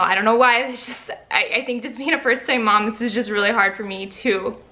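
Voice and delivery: real tears welling up as she talks; choked-up first-time mom; getting emotional. Real, not acted. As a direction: voice catching, fighting back tears. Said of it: "sorry, I'm gonna get emotional".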